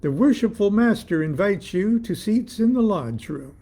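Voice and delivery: mildly shouted formal invitation; shouted announcement. A narrator's reading. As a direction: deliver a lodge ritual line to the hall. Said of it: "I shouted to the empty hall".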